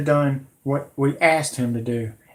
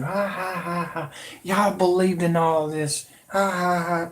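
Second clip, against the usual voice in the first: mock laugh; 3 semitones higher than usual. Imitating the taunting politician, mock laugh. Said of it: "laughing at you".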